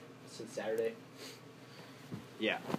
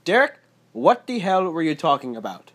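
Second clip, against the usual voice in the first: higher, louder mom with a Portuguese tinge; Portuguese tang; 4 semitones higher, 5 dB louder than usual. Retold or imitated. Portuguese mom telling off her son Derek, slight Portuguese accent. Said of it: "have a little Portuguese tang to it".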